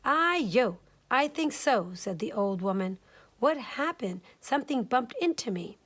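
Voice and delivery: a hint of a startled old lady; old woman.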